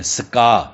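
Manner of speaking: سکا as an s-k blend, both consonants audible; two separate sounds. Shown as a demonstration. Teacher correcting the book's trigraph, سکا with two distinct sounds. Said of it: "دو بناتے ہیں".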